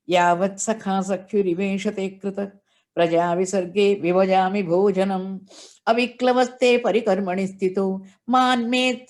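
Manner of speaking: steady chanted Sanskrit verse, repeating the last word; reciting the verse devoutly to the listeners; shloka recitation. Acted. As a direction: intone the verse like scripture at a katha.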